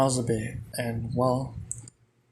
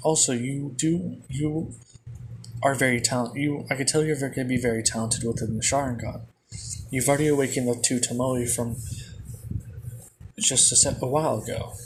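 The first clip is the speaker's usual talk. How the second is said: usual speaking voice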